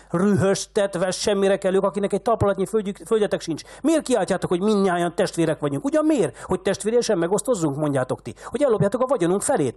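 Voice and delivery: very high, loud furious tirade; lost all control. A narrator's reading. Old man losing all self-control at the beggars, raging. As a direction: spit the insults out in a rage. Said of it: "teljesen elveszítette önuralmát".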